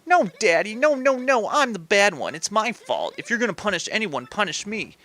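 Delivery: high-pitched, frantic daughter; girlish begging to a father; pleading daughter. Acted.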